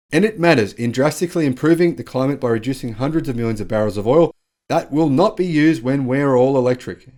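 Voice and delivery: mock-presidential speech building in volume; Joe Biden. Host quoting the president on climate and oil, mock-oratorical. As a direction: lightly imitate a politician driving a point home. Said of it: "amplified by U S President Joe Biden".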